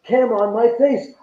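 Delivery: a ghost-show host mugging for his own camera; mocking TV host. Mimicking a reality TV host, hammed-up. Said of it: "the nonsense that I was watching of".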